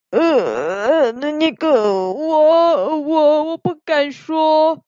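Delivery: timid hesitation. Acted. Xixi too afraid to explain.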